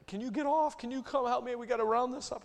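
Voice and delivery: imitating a panicked farmer calling for help; desperate friend. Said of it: "he called me d-, desperate".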